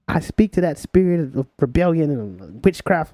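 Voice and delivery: slow solemn mock rebuke of a spirit; mom rebuking. Son retelling mom rebuking his rebellion, slow and solemn. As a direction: intone it like a church mother casting out. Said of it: "And my mom said".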